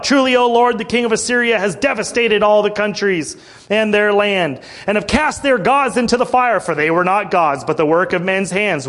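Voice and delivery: pleading prayer, rising in force; fervent prayer. Acted. King Hezekiah pleading before the Lord, fervent prayer. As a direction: call on God to deliver, earnest.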